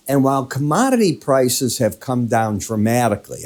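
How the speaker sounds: dramatically given extra weight at the end; stress on dramatically. Shown as a demonstration. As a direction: lean on the word dramatically. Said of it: "I want to emphasize the word dramatically".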